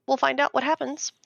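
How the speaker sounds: half-whispered aside; hushed aside. Real, not acted. Wife confiding the movie deal to listeners, hushed. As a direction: drop to a whisper.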